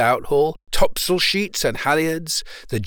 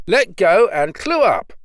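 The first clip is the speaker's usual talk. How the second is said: high, loud call to the crew; shouted command; 6 semitones higher, 6 dB louder than usual. A narrator's reading. Young sailor gives the crew the last command, shouting. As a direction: call the last order out sharply. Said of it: "At this last command".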